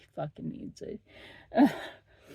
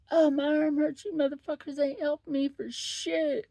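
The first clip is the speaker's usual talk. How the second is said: mock wail, higher and louder; whining patient; 8 semitones higher, 4 dB louder than usual. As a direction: ham up a complaining ER patient. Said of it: "she's just sitting there".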